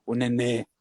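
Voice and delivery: low, slow, cruel demonic voice; possessed demon voice. Retold or imitated. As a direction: growl it out like a possessed spirit. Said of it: "sabe aquela voz do demônio". (voz grave de demônio possuído)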